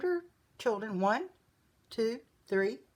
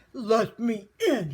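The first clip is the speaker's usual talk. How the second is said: loud, drawn-out howl; 8 dB louder, slower than usual. A narrator's reading. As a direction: howl slowly to be let in. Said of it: "he howled".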